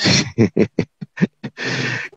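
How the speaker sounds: light, breathy chuckle; laugh. Real, not acted. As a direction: chuckle under your breath. Joking about hard questions.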